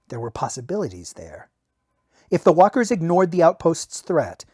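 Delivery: steady audiobook reading; story narration. A narrator's reading. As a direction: read the battle scene like an audiobook. Novel narration read aloud.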